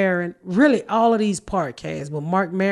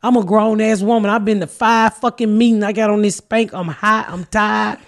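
louder, mock furious scolding; retold rant at the producer, somewhat louder; retold angry telling-off; 3 semitones higher, 5 dB louder than usual. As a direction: read the little white boy the riot act, hammed up. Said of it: "that made me so mad with him".

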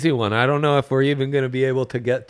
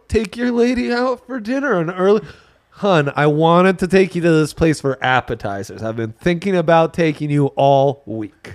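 smooth date pitch; 2 semitones higher than usual. Pretend. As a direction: pitch the date sweetly to her.

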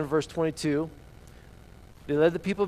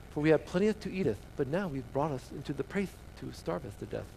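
mock-archaic recital, fading softer; stilted scripture reading; 6 dB quieter than usual. Shown as a demonstration. Preacher showing how everybody else reads it, stilted. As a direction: recite it without any whine. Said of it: "everybody else would be like".

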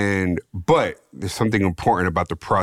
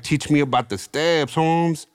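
put-on higher, brash young Chicano homeboy voice; raised, slangy barrio teen sneer; cocky barrio kid; 6 semitones higher than usual. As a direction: scoff it like a swaggering eighteen-year-old from the barrio. Teen mocks black dude as sponsor.

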